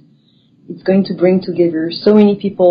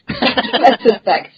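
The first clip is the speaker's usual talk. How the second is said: nervous laugh; 4 semitones higher, much slower than usual. Real, not acted. Laughs over the Paris joke.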